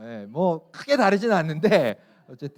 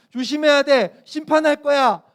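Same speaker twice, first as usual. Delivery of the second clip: louder, firm voice of God warning; a preacher voicing God's firm warning, louder; stern warning; 6 semitones higher, 7 dB louder than usual. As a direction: warn them sternly, raised voice. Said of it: "경고의 메시지를 주십니다".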